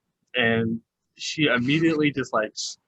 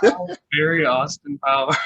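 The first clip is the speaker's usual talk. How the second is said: mock British accent; 2 semitones higher, 6 dB louder than usual. Joins in the posh British joke.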